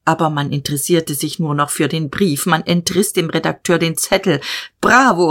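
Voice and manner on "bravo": a loud cheer of approval; hearty bravo. Acted. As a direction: call out bravo with delight. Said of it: "rief Jadasson".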